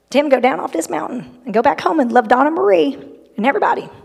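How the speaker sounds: imitated mountain Southern accent. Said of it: "he did it in his accent".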